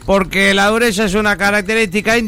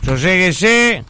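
drawn-out, slow soothing; slow calming plea; slower than usual. Acted. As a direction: stretch it out to calm him. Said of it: "por favor, por favor".

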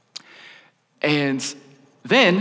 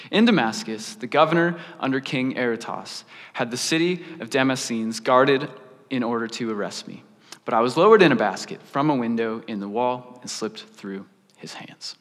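lower, subdued recitation trailing off; scripture reading; 4 semitones lower than usual. A narrator's reading. Paul recounting his escape, read in subdued recitation.

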